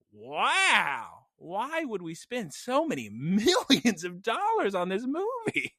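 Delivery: slow, disbelieving wow; incredulous wonder. Retold or imitated. Viewer baffled by the movie's big budget, incredulous. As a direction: marvel half-mockingly at the waste. Quoting own thoughts on movie.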